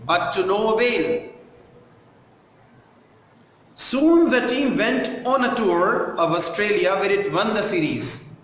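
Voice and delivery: measured sample reading with pauses at phrases; textbook read-aloud. Shown as a demonstration. Teacher reading the story to a class, measured read-aloud. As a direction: read it out carefully for pupils following along.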